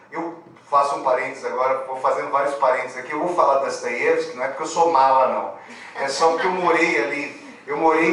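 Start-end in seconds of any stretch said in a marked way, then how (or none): 3.6-4.4 "Dostoiévski" said Russian-style, unstressed o as a; "Dostoiévski" with a Russian a in the first syllable; Russian pronunciation. Shown as a demonstration. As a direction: say "Dostoiévski" as "Dastayevski". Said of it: "ele é pronunciado como A".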